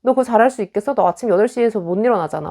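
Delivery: cutting nag. Retold or imitated. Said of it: "아픈 점을 찌르는".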